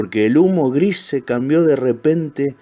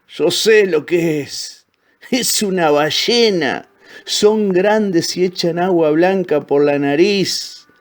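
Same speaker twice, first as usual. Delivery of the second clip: high, slow, drawn-out pronouncement; old wise crocodile; 6 semitones higher, slower than usual. Acted. Old crocodile suddenly telling the others, slow and emphatic. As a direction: announce it slowly and knowingly, pitched up.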